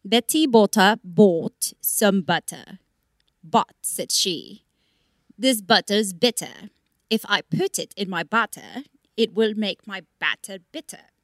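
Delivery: slow careful tongue twister. Shown as a demonstration. Reciting a tongue twister she practices while hiking, slowly. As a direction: say each word slowly and carefully. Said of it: "so I'm learning Betty Botta".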